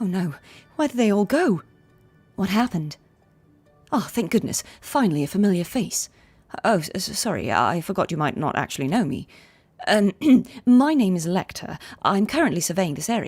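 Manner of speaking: anxious, fretting, nervous voice. A game master speaks as a researcher character to the players, anxious researcher voice. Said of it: "here's the an anxious researcher".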